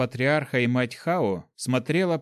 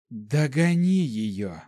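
cold command; much slower than usual. Acted. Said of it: "холодно бросила она".

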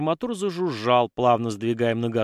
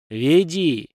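loud, high curt order; forceful one-word command; 5 semitones higher, 5 dB louder than usual. A narrator's reading. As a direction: order the prisoner to move. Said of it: "приказал полковник".

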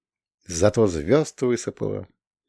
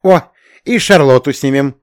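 delighted; 5 semitones higher, 7 dB louder than usual. A narrator's reading. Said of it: "обрадовался Шурик".

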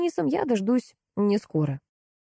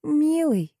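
airy, higher breathy endearment; 8 semitones higher than usual. A narrator's reading. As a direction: breathe it out sweetly. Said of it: "с придыханием добавила".

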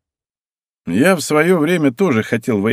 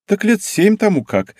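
slow, haughty and a bit higher; nose in the air; 10 semitones higher than usual. Acted. Girl teasing the hero with playful haughtiness. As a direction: toss it off like a proud girl. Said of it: "вздёрнула она носик".

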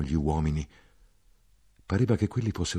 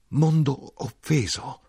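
anguished shout; 8 semitones higher, slower than usual. A narrator's reading. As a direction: hurl "mondo offeso" up high, slowly stretching mondo. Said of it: "gridai io".

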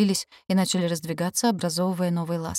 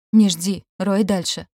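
calling out; 6 dB louder, slower than usual. Acted. Calling through the tunnel.

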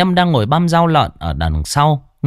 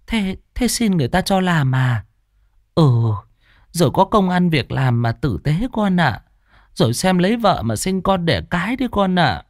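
put-on fond old aunt; 6 semitones higher than usual. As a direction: greet the lost nephew tenderly. Aunt advising. (giọng bà trìu mến)

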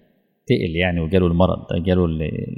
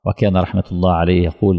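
normal talking voice

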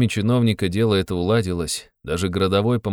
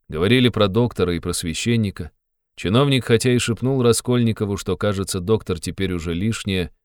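ordinary delivery, nothing marked

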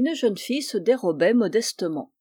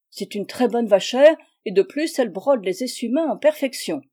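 indignant complaint; 4 dB louder than usual. Acted.

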